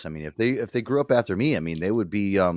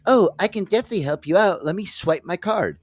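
high, cheerful put-on voice; mock eager helper; 8 semitones higher than usual. To the fundraiser, a high cheerful mock offer. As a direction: play an eager, helpful customer. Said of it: "Then I would have been like".

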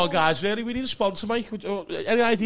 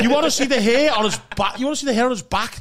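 louder, threatening; menacing repeat; 3 semitones higher, 4 dB louder, faster than usual. Acted. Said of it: "How did you make that sound like a threat?".

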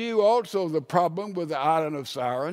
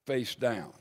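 soft echo; 6 semitones lower, 6 dB quieter than usual. Retold or imitated. Preacher softly repeating the woman's shame, quietly. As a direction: repeat it much softer and lower.

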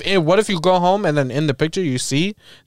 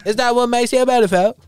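high-pitched mock British accent, rising at the end; hammed-up British accent; bad British accent; 7 semitones higher than usual. Quoting the pop star's song title, mock British accent. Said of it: "My British accent is not on point".

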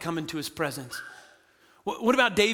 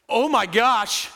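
awestruck gasp; 4 dB louder, slower than usual. Retold or imitated. Elders awestruck before God.

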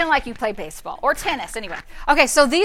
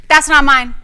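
firm rebuke; 2 semitones higher, 4 dB louder than usual. Shown as a demonstration. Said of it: "That's what you say when the enemy tries".

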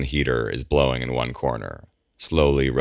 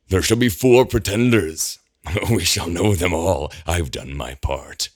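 higher, laughing manic prophet, slowing at the end; manic prophecy; 4 semitones higher than usual. A narrator's reading. Eamon reciting prophecy to Gabriel, manic and higher.

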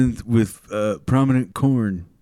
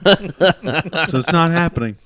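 food psychic. Pretend. Food psychic character bit.

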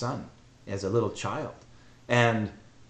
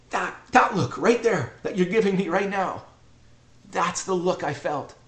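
tearful son; 7 semitones higher than usual. Retold or imitated. Son moved to tears by mother.

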